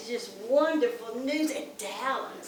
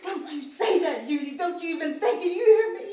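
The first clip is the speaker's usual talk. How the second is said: tearful insistence. Acted. Grandmother comforts upset girl.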